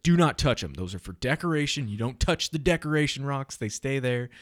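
put-on strict dad telling kids off; stern parent. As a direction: lay down the law to the kids.

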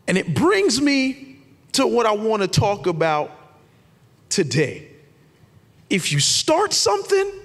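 measured proclamation with big pauses; emphatic preaching. Acted. Preacher introduces why commitment matters, emphatic and deliberate preaching. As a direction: land each phrase, then pause. Preacher launches the sermon point.

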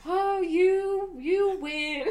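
high, drawn-out theatrical concession; hammed-up surrender in a high voice; mock defeated mom. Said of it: "And then at the end".

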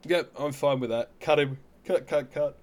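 loud and emphatic; excited. Real, not acted. Emphatic verdict to cut player.

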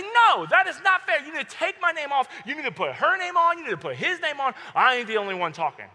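loud, high-pitched protest; indignant refusal. Retold or imitated. Student refusing to accept the teacher's warning, loud indignant protest. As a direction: argue back hotly, demanding fairness. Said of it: "I cannot accept that".

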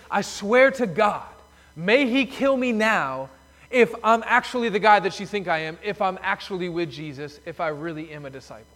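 daring God to strike him down; a cornered man's furious vow, fading at the end; desperate oath. Retold or imitated. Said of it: "calling down God's curses on himself".

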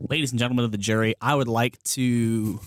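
pompous courtroom lawyer voice; mock lawyer. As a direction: address the jury grandly.

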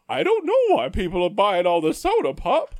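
high, loud, fussy mock whine; whiny mock manager. Mocking the manager fretting over soda, high and whiny.

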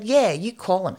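defiant retort. Retold or imitated. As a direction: throw the threat back in a retold row. Angry retort in retold quarrel.

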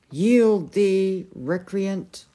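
loud opening, formal challenge; commanding demand. A narrator's reading. King atop the fallen knight, commanding. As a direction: demand surrender from a beaten foe.

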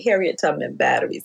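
"Harriet Tubman Batteries" spelled out word by word; over enunciating. Shown as a demonstration. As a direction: say "Harriet Tubman Batteries" slowly, each syllable crisp. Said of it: "let me say that slowly to make sure you've heard me correctly".

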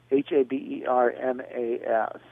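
H A B E R M A S slowly, each letter apart; slow spelling. Shown as a demonstration. Host repeating an author's surname for listeners, spelled slowly. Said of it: "but spelled".

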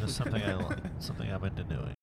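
holding nose. Real, not acted. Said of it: "holding my nose".

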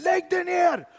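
high, loud shouted order; police shout. Retold or imitated. Police aiming guns at him, shouted order. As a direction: yell the command at gunpoint. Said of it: "De säger".

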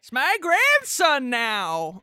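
slow, proud grandma. Acted. Grandma claiming Bigfoot as her grandson, slow. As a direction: mildly play the proud grandma.

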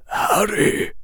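breathy, high gasp of a name; airy, urgent gasp. A narrator's reading. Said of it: "gasped a voice".

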